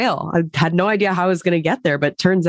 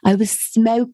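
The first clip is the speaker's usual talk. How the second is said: a brief higher attempt at a British accent, abandoned after "smoke-"; 6 semitones higher, slower than usual. Guest briefly mimicking a British accent for her co-host, cut short. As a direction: start a posh British voice, then break off. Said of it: "I'm not gonna do that accent".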